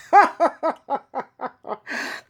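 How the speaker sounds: a burst of real, high laughter; real amused laugh. Real, not acted. Vlogger laughing at her ex's downfall, real amused laugh. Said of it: "I need to stop laughing here".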